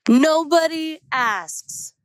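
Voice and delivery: slow, high, imitating a frustrated friend. Friend telling her what people never do, frustrated. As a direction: draw it out high in mock disbelief. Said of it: "mad, upset, frustrated".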